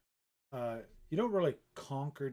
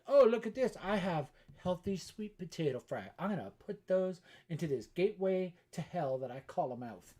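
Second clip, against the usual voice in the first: high, loud hammed-up showing off; mock-excited announcing; 6 semitones higher, 6 dB louder than usual. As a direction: play up the grand announcement. Acts out cooking while painting.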